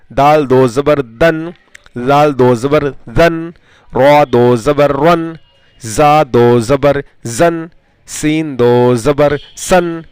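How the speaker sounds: measured, rhythmic letter-by-letter chant; spelling drill recitation. Shown as a demonstration. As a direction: recite it evenly for pupils to repeat.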